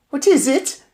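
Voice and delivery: high witch call; cried out. Acted. Witches asking the sniffer, crying out. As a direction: call out to her. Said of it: "the others cried out".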